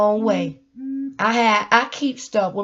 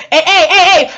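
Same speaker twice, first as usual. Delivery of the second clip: laughing hey; 5 semitones higher, 9 dB louder than usual. Real, not acted. Laughing call-out.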